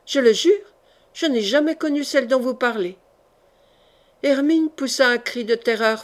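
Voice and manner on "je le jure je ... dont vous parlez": a forceful denial that settles by the end; forceful oath. Acted. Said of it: "dit Laurence avec force".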